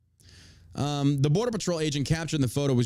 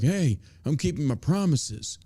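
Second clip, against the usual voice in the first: mocking politician. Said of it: "posture to the American people like".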